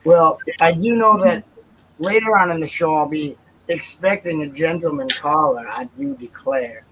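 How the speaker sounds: playing the delicate Southern belle with an American Southern accent. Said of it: "So that was my Southern Belle".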